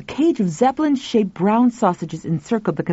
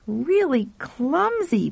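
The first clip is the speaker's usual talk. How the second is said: put-on boy voice; 7 semitones higher, 3 dB quieter, much slower than usual. Pal voiced.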